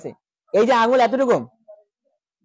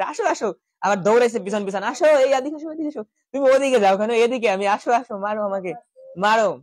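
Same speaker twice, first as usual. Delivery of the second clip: teasing taunt. Retold or imitated. Krishna taunting demon, playing chase.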